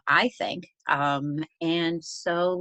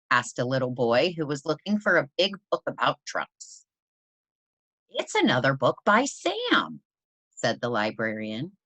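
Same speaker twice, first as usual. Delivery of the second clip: put-on reading a picture book aloud to children; story narration. A narrator's reading. Teacher reading Library Mouse to her class, storytelling voice. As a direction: tell the story gently, like at story time.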